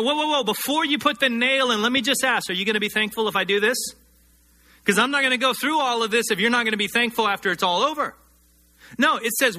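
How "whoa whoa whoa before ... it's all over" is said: a quick, hammed-up haggling voice that speeds along; mock bargaining Jesus. Preacher mocks the idea of Jesus bargaining on the cross, fast and haggling. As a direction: play it as a pretend bargain that never happened. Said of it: "he wasn't sitting there saying".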